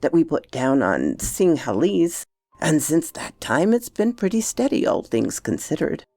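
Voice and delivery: lightly voiced servant, pitch swinging widely; deferential Bassett. Bassett recounts bets to Oscar, lightly voiced deference. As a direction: spin it out like a respectful storyteller.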